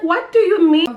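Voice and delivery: high, loud astonished question; retold high-pitched bewilderment; startled disbelief. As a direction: act out being completely taken aback. Taken aback by mother's answer.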